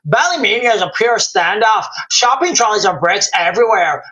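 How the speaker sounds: put-on reads the viewer comment in a light Irish accent; a gentle Irish lilt on every word. Streamer rereads a viewer's comment in an Irish accent. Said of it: "I'm giving a, an Irish accent".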